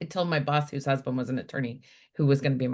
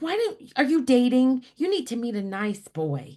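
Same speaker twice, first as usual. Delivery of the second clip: imitating grandmother; 8 semitones higher, 3 dB louder than usual. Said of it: "she's like".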